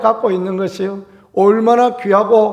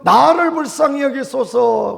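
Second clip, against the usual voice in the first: higher, pleading cry to Jesus; crying out for mercy; 6 semitones higher than usual. Retold or imitated. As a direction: call out over the crowd, begging. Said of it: "그렇게 하지 않았습니까".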